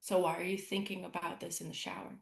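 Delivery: loving inner voice. Retold or imitated. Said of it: "this voice is like".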